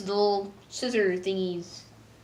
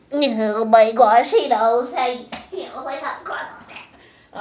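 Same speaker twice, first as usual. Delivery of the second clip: mock panicked Star; 3 semitones higher, 7 dB louder, slower than usual. Star panicking that Marco knows, hammed-up. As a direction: gasp it like she's caught out. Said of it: "she's like".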